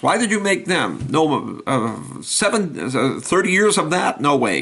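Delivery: high indignant protest; a camel refusing thirty years; incredulous camel. Acted. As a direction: demand an answer from God.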